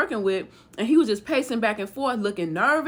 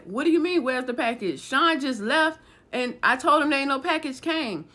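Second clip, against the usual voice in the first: retold protest, voice pitched up; bewildered protest; 4 semitones higher than usual. Woman denies getting the package to intruders, bewildered protest. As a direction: push back as the wrongly accused woman.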